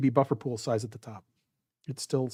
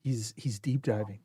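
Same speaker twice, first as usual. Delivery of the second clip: golf commentator; 4 dB quieter than usual. Acted. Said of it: "my golf voice".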